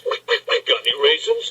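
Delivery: quacky, voiceless "quick, quick, quick"; joke duck. Acted. Duck asks bartender for raisins, quacking voice. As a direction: quack out the repeated word like a duck.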